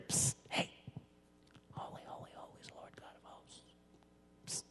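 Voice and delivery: a hushed, unvoiced, secretive whisper of praise; mock whisper. Preacher mocking the angels as timid whisperers, in a whisper. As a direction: whisper it like you're passing a secret. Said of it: "they're not up there whispering".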